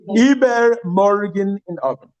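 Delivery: slow, spaced phrase for writing; slow dictation; slow modelling. Shown as a demonstration. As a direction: dictate it slowly. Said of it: "teacher slow model".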